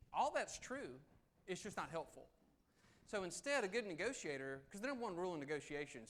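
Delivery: normal talking voice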